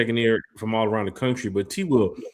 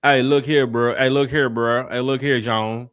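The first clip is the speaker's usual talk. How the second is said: loud, higher Memphis greeting, looping hey look here; Memphis talk; 3 semitones higher, 7 dB louder, slower than usual. Retold or imitated. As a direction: imitate a Memphis guy calling out, loud and high. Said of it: "Is that, is that how they talk?".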